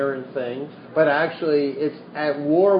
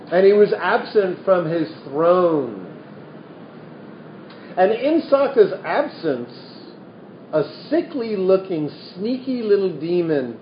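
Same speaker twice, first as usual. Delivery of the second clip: lively storytelling voice reading scripture; animated reading of a Buddhist parable; story narration. A narrator's reading. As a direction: tell the old tale to the room. Continues reading the sutta story.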